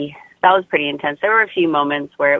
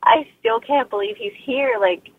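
tearful; 4 semitones higher than usual. Retold or imitated. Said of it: "I just started weeping, like, sobbing".

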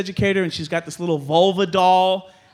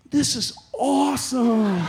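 slow laughing; 3 semitones higher, slower than usual. Retold or imitated. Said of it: "I'm like".

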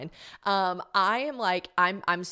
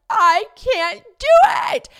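high, slow wail, much louder; wailing shout; 13 dB louder, slower than usual. Retold or imitated. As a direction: wail it out like you've given up. Retold breakdown on the ski slope.

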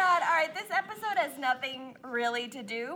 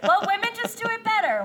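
laughing; 9 semitones higher, much faster than usual. Real, not acted. Joking boast, laughing.

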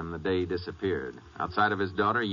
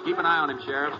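urgent; 7 semitones higher, faster than usual. Acted. Chasing suspect through crowd.

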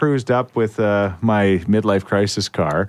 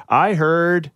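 put-on English drive-thru accent; 9 semitones higher than usual. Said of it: "I just love that accent".

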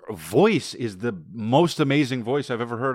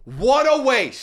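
much higher, very slow, drawn out; exaggerated lament; 12 semitones higher, much slower than usual. Real, not acted. Comedian lamenting that a caller's voice goes unused, high drawn-out wail. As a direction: wail it in over-the-top dismay. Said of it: "that voice was am".

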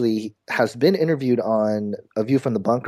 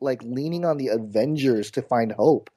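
incredulous; 5 semitones higher than usual. Retold or imitated. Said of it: "I'm like".

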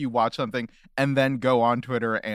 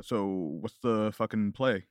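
Kendall impression; 3 semitones lower than usual. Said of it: "we got a Kendall impression from him".

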